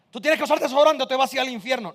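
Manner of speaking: lightly playact a bullying parent; mock threat. Mock threat to force his son. (amenaza fingida, en tono exagerado)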